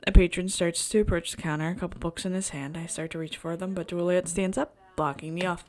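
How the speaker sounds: measured first-person narration; storyteller reading at an even pitch; story narration. A narrator's reading. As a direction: read the inner monologue aloud evenly. Reads the game's story aloud.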